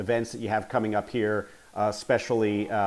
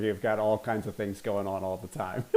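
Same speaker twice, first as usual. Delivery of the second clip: laughing; 5 dB quieter than usual. Real, not acted. Amateur podcaster chaos, laughing.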